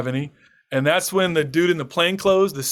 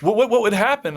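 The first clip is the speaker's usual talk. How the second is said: mildly alarmed, higher-pitched stammer; retold terrified neighbor; 4 semitones higher than usual. Neighbor checking on him after the raid, mildly terrified. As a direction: imitate a rattled neighbor, stumbling over words. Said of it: "was terrified".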